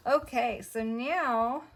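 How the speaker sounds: winded, breathy talk; out of breath. Real, not acted. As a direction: speak a little out of breath. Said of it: "I don't know why I'm so winded".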